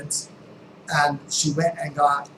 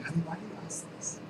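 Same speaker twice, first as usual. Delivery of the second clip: gentle ask; 3 semitones higher, 9 dB quieter, faster than usual. Retold or imitated. Gentle mom alternative.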